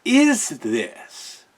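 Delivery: high, drawn-out incredulous whine; baffled disbelief. Retold or imitated. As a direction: ask it like you can't believe what you're seeing. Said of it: "I'm watching this going".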